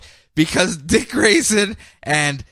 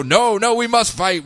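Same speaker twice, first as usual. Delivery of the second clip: higher-pitched, hammed-up heroic refusal; mock defiant; 5 semitones higher than usual. Heroes refusing Superman's offer to talk, mock defiant. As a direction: protest like an earnest comic-book hero. Acted refusal to make peace.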